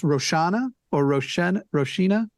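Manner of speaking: Roshana with a SH, then Roshina with SHEE; offering pronunciations. Shown as a demonstration. Co-host checking how a donor's name is said, offering pronunciations. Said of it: "it's actually pronounced".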